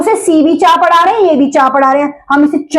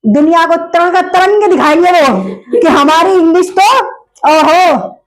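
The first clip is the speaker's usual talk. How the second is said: showy show-off. Retold or imitated. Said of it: "ऐसी होगी कि भैया".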